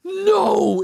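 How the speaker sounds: very high, loud scream of refusal; loud, high-pitched retold shriek; re-enacted yell. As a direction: yell it out in panic, acting it out. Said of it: "and I just yell".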